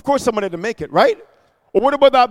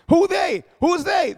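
shouted question; 9 semitones higher than usual. Real, not acted. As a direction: fling the question out high and hard. Preacher calling out to congregation.

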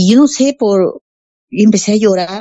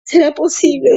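wondering aloud; 6 semitones higher than usual. Retold or imitated. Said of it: "decía yo".

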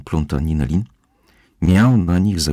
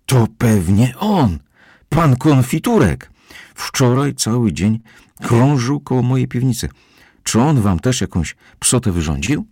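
housekeeper calling out; 8 semitones higher, 3 dB louder than usual. Acted. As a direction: call it out like an indignant housekeeper. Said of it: "zawołała".

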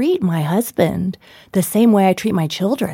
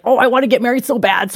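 quick, higher, gushing mock yearning; retold eager longing; 4 semitones higher, faster than usual. Bride-to-be longing for her wedding, playfully eager. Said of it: "I was always like".

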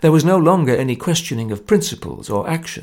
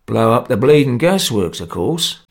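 complacent; 2 semitones lower, 3 dB louder than usual. Acted.

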